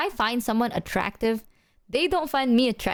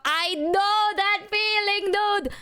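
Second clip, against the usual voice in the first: mock sympathetic; 10 semitones higher, much slower than usual. Reading chat sympathetically.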